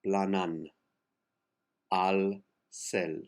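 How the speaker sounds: "planan" with the two A's made one; A's merged. Shown as a demonstration. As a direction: blend the A's of "planan" together. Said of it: "two A's, make them one".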